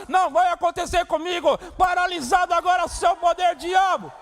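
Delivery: high, loud rebuke of the devil; loud defiant rebuke; declared out loud. Shown as a demonstration. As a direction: command it boldly. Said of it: "Precisamos dizer alto lá".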